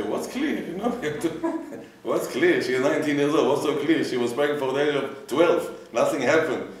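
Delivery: high, loud, scoffing retort; mock incredulous complaint. Rabbi voicing a scoffing retort to the congregation, loud and mocking. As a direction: throw the question back in disbelief.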